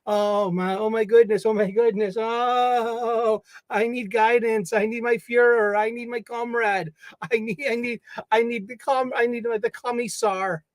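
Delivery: mock frantic politician begging for a leader; panicked politician. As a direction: plead for someone to give you orders. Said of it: "being like".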